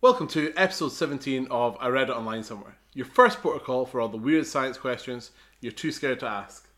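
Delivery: loud, over-energetic podcast welcome; shouted intro. Real, not acted. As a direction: bring too much energy, practically shouting the opening. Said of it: "you're literally screaming".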